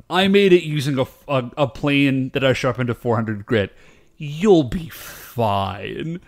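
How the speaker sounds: lightly imitated British woodworker; vague British accent. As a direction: reassure in a loose British accent, drawing out the end. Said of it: "sort of a vague British accent".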